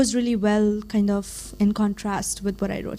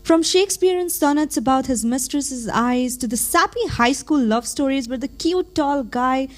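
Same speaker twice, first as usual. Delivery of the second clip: measured recital with swelling emphasis; spoken-word poem; 3 semitones higher than usual. Acted. Reciting their own poem about falling in love, spoken-word delivery. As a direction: perform it as slam poetry, leaning on key words.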